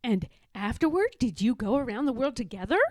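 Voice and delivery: quick, eager cub asking; eager little bear. Acted. Little Bear asking his grandfather, fast and eager. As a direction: rush the question out like a curious cub.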